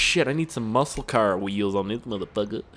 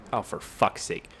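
whispered curse; 3 semitones lower, 5 dB quieter, slower than usual. Real, not acted. Frustrated mutter.

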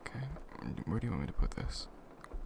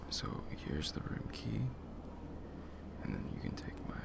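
whispering; 2 semitones lower than usual. Acted. Quiet hotel room handover.

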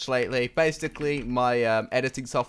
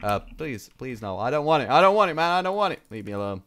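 louder panicked pleading, rising; being chased; 4 dB louder than usual. Real, not acted. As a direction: beg as someone chases you. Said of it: "angry person with a weapon chasing me".

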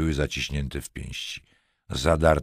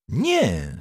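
firm; 8 semitones higher, 3 dB louder than usual. A narrator's reading. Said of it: "stanowczo potwierdził Wereda".

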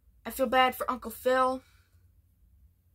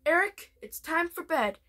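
mom voice; 5 semitones higher than usual. Retold or imitated. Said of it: "his mom walks up to him and says".

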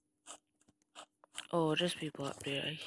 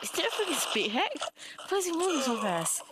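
shocked outburst; 5 semitones higher, faster than usual. Real, not acted. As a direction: blurt it out, stunned that anyone is moving that fast. Shocked by an enemy speed hack.

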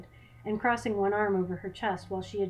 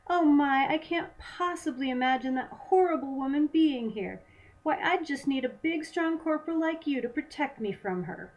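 high-pitched, hammed-up upper-class damsel; feigned upper-class accent; 6 semitones higher, 4 dB louder than usual. A narrator's reading. Svetlana mockingly flattering the corporal who hunts the pirate, feigned upper-class accent. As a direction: play the helpless lady in an upper-class accent. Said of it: "feigning an upper-class accent".

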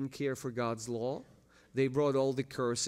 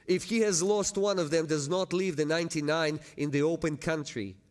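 raised, emphatic parable reading, swelling at the end; impassioned scripture reading; 4 semitones higher, 5 dB louder than usual. Real, not acted. Preacher reads lost sheep parable to congregation, impassioned reading. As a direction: read it out with a preacher's force.

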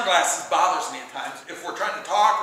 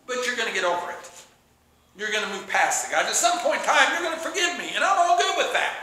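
mock-stubborn insistence; a touch of breezy defiance. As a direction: dig in, lightly acted. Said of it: "we get stubborn, don't we?".

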